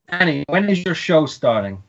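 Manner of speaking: put-on British speaker's American accent. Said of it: "I'm gonna try and do my American accent".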